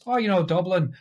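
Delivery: put-on makeshift Irish accent, pitched slightly up. Bluffing hoodlums about being from Dublin, put-on Irish. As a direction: fake a light Irish accent. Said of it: "Drew had to speak Irish".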